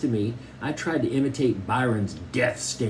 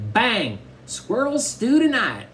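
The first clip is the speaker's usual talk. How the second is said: suara anak kecil jauh lebih tinggi, "stew" panjang dan pelan; a much higher little kid voice, slow on "stew"; little brother Cody; 10 semitones higher, 3 dB louder, slower than usual. A narrator's reading. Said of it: "Cody pointed his finger like it was a gun and said".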